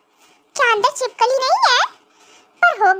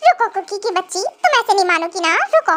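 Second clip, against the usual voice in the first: mock threat; 6 semitones lower than usual. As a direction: lower playful threat. Husband threatens to chase wife. (बनावटी गुस्से में धमकी)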